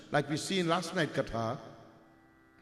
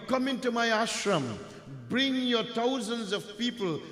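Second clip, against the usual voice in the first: higher, expansive welcoming Brahman; generous host; 4 semitones higher than usual. Acted. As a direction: welcome them all in with open arms. Brahman generously invites the king.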